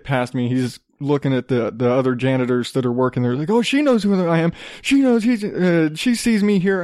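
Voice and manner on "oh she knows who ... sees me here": higher-pitched insistent protest; mock pleading insistence, pitched up; retold pushy man. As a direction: imitate an indignant man claiming he belongs. Pushy man's plea, acted out.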